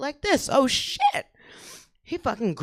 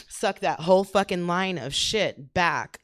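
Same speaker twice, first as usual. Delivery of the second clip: sniffing; slower than usual. Shown as a demonstration. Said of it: "Do that".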